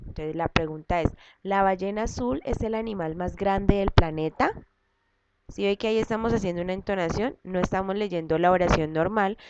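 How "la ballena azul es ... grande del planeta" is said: teacher demonstrating question intonation. Shown as a demonstration. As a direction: read as a question, rising on "planeta". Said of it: "debemos hacer la entonación".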